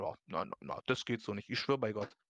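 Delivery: a hint of a prim conductor, low and hushed; typical German scold. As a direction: lightly play a fussy German official wagging a finger. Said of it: "So diese typisch deutsche".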